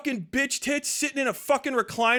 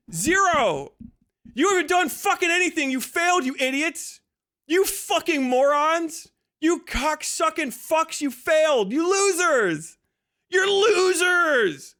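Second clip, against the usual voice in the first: angry rant; 5 semitones higher than usual. Real, not acted. Streamer to his critics, angry and slowing. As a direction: hurl every insult slowly and hard.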